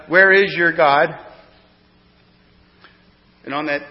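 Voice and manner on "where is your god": slow, louder jeer, pitched up; taunting shout. Retold or imitated. Crowd taunting Jesus on the cross, slow loud jeer. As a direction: drag out a mocking challenge. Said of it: "Or they shouted".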